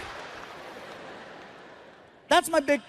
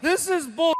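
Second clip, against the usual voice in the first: put-on grumpy teen; 6 semitones higher than usual. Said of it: "He's pissed".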